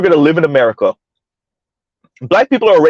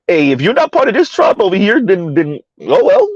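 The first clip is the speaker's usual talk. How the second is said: dismissive paraphrase; 4 semitones higher than usual. Retold or imitated. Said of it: "But I said".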